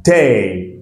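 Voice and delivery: day said with the E sound; day pronounced with the E vowel; model word. Shown as a demonstration. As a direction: say day with a clear ay. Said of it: "here we say day".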